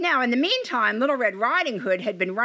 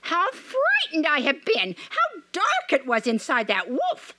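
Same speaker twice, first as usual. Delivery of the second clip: put-on high relieved girl's cry; a small girl blurting out her fright; high, slowed, shaken girl's voice; frightened little girl; 8 semitones higher than usual. A narrator's reading. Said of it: "hopped out crying".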